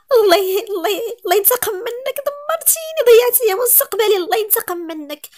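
high, loud, anguished cursing; anguished curse. Acted. Niece screaming curses at the man who ruined her. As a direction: hurl the curse at him with all her pain.

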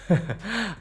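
quick soft chuckle; a little laugh at his own joke; short laugh. Real, not acted. Laugh after rhetorical question.

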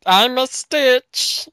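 high, slow squeaky alien voice; Stitch voice. Pretend. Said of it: "Lilo and Stitch".

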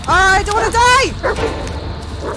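slow scared drawn-out cry; terrified wail. Real, not acted. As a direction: wail in real fright. Terrified in horror game.

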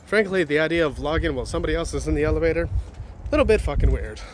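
panting from the stairs; out of breath. Real, not acted. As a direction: talk while winded from climbing. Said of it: "I'm out of breath 'cause I'm fucking fat".

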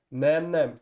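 hangosan, magasra csapó tiltakozás; kiálts fel, és utasítsd el határozottan; rémült tiltakozó kiáltás. A narrator's reading. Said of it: "kiáltotta Frodo". (hangos, tiltakozó felkiáltás)

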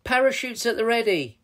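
high, commanding hero's call; rally the team to jump; crying out. A narrator's reading. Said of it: "cried Captain Lou Roll".

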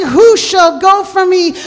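crying out. Retold or imitated. Preacher voices God seeking someone to go, crying out. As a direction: call out to the congregation as God. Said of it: "he's crying and he's saying".

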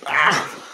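short, loud burst of "ah!". Real, not acted. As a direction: let out a sudden loud ah. Exertion playing with the pet.

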